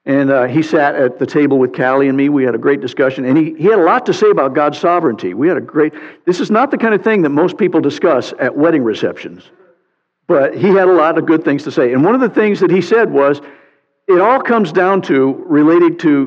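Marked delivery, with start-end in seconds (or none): none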